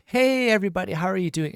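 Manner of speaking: cheerful greeting. Shown as a demonstration. Teacher shows English tone with an upbeat greeting to everyone. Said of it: "it's all about tone".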